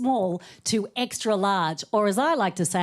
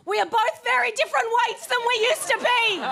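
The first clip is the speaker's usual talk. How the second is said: much higher mock husband voice, gently tactful; husband's kind voice; 12 semitones higher than usual. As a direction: play the husband breaking it kindly.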